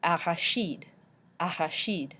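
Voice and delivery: Arachide ending "sheed"; French Arachide with soft sh and long ee; soft CH, ee sound. Shown as a demonstration. Teacher models French for peanut, sheed ending on Arachide. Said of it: "I in French that sounds like E".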